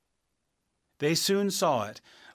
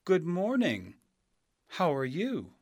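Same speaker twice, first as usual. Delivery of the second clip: polite; 5 semitones higher than usual. Acted. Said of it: "she answered politely".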